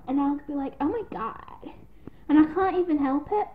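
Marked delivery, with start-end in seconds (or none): 0.8-1.7 put-on American accent. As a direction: slip into an American "oh my god". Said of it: "I keep doing this American voice".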